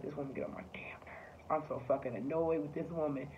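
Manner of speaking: whispered, annoyed, as if thinking it; hushed private grumble; inner-thought whisper. Retold or imitated. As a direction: whisper your irritation so mom can't hear. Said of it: "you think in the back of your head".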